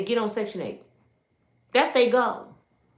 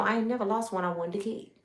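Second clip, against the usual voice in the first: quoted mother; 8 dB quieter, faster than usual. Retold or imitated. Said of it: "She said".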